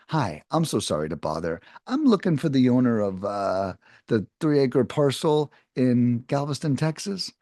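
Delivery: unhurried, a little slow and plain; slowly. Shown as a demonstration. Sales rep reading the opening line slowly to a seller. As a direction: take the line slowly, like it is the first call today. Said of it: "important to say it a little slowly".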